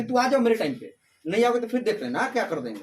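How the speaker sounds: lightly bossy Haryanvi threat; mild mock warning in Haryanvi style; ordering tone. Teacher imitating a Haryanvi man giving orders, lightly bossy. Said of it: "तुमको order दे रहा".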